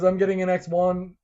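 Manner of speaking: ranting fan letter; worked-up fan. Retold or imitated. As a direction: read it like an indignant kid. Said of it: "He goes".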